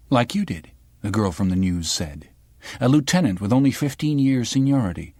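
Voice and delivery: a hint of a sharp young reporter; the girl from the news. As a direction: probe him like a pushy journalist.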